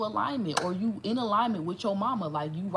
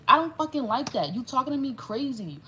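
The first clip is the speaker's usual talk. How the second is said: louder, higher, firm callout; power move; 4 semitones higher, 4 dB louder than usual. Pretend. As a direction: stand your ground and call it out. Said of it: "make the power move to say".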